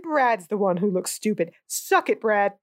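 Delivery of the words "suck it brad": gloating. Real, not acted. Gloating at Brad.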